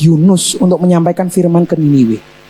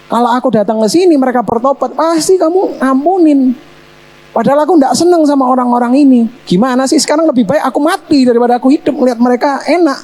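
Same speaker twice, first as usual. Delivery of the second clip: raised, whiny complaint to God; a touch of petulant protest; Jonah complaining; 4 semitones higher than usual. Acted. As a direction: grumble like a sulking prophet. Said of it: "Yunus komplain sama Tuhan".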